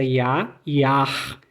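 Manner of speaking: Ja short, Jahr with guttural R at the end; scene: teacher contrasts two German words, final R. Shown as a demonstration. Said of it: "Olha só a diferença".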